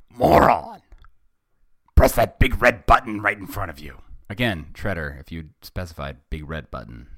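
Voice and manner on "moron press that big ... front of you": very loud, higher, quickening rant; exasperated boss yelling; furious villain shout. A narrator's reading. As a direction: bellow at a useless henchman. Villain scolds bungling henchman.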